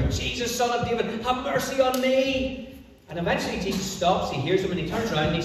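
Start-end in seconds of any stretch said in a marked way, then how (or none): 0.0-2.8 insistent shout. Acted. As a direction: call out a persistent plea, pitch raised. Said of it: "he shouts all the louder".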